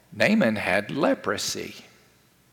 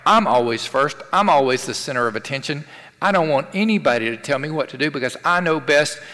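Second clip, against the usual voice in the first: mock defiant boasting in quick, punchy bursts; proud and defiant. Preacher voicing the Lucifer diva attitude, proud and defiant. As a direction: act out a mildly hammed-up diva attitude. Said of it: "It's an attitude that is defiant".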